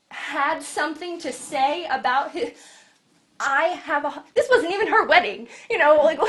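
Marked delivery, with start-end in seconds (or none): 4.3-6.2 loud laughing aside. Real, not acted. Preacher laughing at the wedding joke, loud laughter. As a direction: laugh it out, louder.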